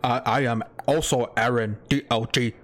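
mock monotone intro voice; flat robotic host intro; monotone impression. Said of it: "Super monotone when I do the intro".

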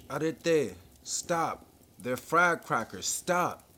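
urgent, high, loud shouts; shouting. A narrator's reading. Inspector trying to stop a crowd's stampede, shouting. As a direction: call out to halt a panicking crowd. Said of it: "he shouted".

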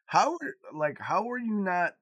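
high, loud amazed question; daughter's voice. Retold or imitated. Dad quotes daughter amazed he had no girlfriends, high and loud. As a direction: play the stunned daughter. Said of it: "she's like".

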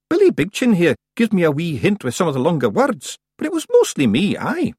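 high, loud little Scots warrior, boasting; proud Scottish clansman. A narrator's reading. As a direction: modestly share credit, then claim it. Rob boasting in narration.

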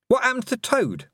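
high, nosy witch voice; curious witch. Acted. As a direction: ask it eagerly. Miss Tick voice.

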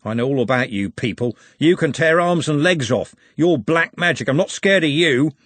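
bully shouting insults at the orc; angry shouting. Acted. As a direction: yell to hide fear. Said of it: "growled Andy".

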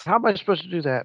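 exasperated driver griping at the radio; mock yell at the radio. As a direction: throw up your hands at dispatch, half-shouting. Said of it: "I yell and say".

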